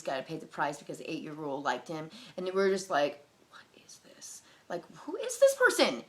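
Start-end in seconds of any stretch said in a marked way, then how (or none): 3.5-4.4 hushed, voiceless whisper; barely-there incredulous whisper; stunned whisper. Retold or imitated. Quotes their stunned reaction in a whisper. 4.7-6.0 high, loud disbelief; retold bewildered outburst; incredulous. Quotes their shocked reaction to stranger.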